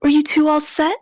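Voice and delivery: femme fatale purr; sultry voice. Acted. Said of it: "sultry it is".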